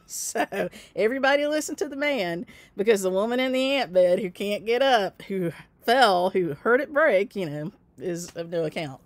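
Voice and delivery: mock the men who ignored her; sarcastic. Real, not acted. Telling a friend nobody believed her, sarcastic and rising.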